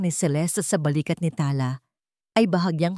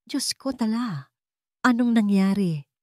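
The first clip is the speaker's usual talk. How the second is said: worried mother; 5 semitones higher than usual. A narrator's reading. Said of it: "puno ng pag-aalala".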